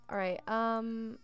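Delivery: slow words through a yawn. Real, not acted. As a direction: talk mid-yawn. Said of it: "I am yawning a lot this part".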